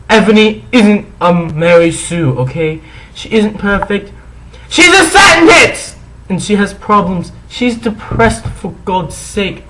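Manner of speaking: put-on whiny defensive teen girl; indignant high teen voice; bratty teen voice. Mock-reading author's note.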